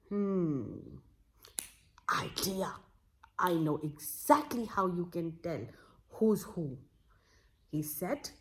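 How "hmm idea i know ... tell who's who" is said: whispered idea. Acted. Wise man whispers his idea.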